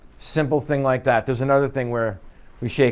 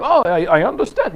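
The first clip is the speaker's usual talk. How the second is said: mock English accent, higher and louder; 5 semitones higher, 5 dB louder than usual. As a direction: put on an exaggerated English accent. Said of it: "start falling into English accents".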